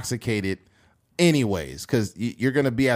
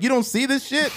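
offended; 13 semitones higher than usual. Retold or imitated. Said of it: "She's like".

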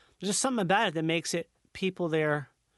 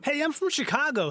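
a broad, nasal mock Chicago "Hey"; Chicago accent; 6 semitones higher than usual. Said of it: "you gotta come to Indiana sometime".

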